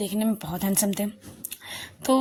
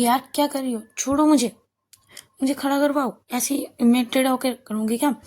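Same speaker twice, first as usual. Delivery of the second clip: louder and higher, mock yell; shouting; 3 semitones higher, 3 dB louder than usual. The speaker yells at Shruti to let her up, mock yell. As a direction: snap at her to let go, half-hammed. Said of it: "जोर से चिल्लाते हुए".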